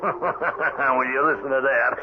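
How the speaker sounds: mocking laugh. Cook laughing at accusation.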